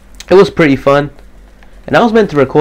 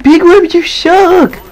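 high, slow drawn-out taunting yell; mock yell; 6 dB louder, much slower than usual. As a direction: stretch it out like a jeering heckle. Mock trash talk at teammate.

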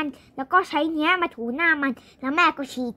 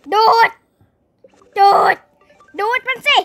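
loud, high, long-held battle order; playful heroic shouting; shouted commands; 4 semitones higher, 7 dB louder than usual. Pretend. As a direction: order the machine on at full voice. Commanding pretend machine to suck.

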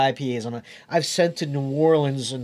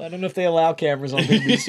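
laughing; much faster than usual. Real, not acted. Laughing while joking.

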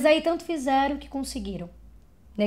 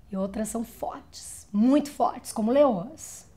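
rising force on the repeat; building strength. Acted. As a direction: grow stronger, like a lioness. Voice paints women strong as lionesses.

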